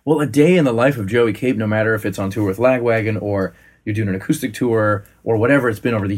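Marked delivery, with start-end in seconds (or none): 0.0-3.2 announcer voice. Pretend. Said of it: "start talking that way".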